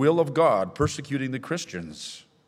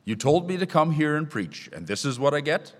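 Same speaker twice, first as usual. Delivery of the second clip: higher-pitched, mildly angry complaint; put-on indignation, pitched up; indignant protest; 5 semitones higher than usual. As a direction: protest to God as if wronged. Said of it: "could even have been angry at God".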